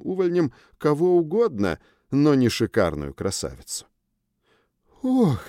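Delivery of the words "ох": high surprised oh; gasp, caught off guard; flustered gasp. A narrator's reading. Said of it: "зарделась женщина".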